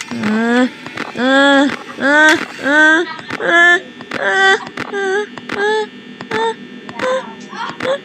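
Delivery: rising terrified uh uh; panicked stammering. Real, not acted.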